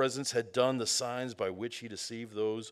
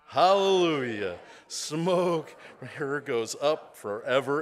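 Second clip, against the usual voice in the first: loud, ringing shout of praise; crying out; 3 semitones higher, 6 dB louder than usual. A narrator's reading. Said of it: "once more they cried out".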